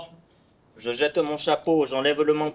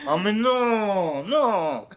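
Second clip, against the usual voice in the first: dismissive; 3 semitones higher, much slower than usual. Acted. Cyrano dismisses the weak insult.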